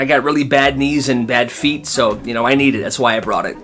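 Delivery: mild, apologetic explanation; polite refusal. Retold or imitated. Man turning down pregnant woman's request for his chair, polite. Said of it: "He's polite about it".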